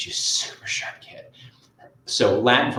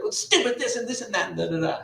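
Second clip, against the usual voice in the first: a hint of a higher grumbling teen; tossed-off grumble about the assignment; dad lightly mimicking his daughter's complaint; lightly voiced annoyed teen; 11 semitones higher than usual. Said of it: "She's like".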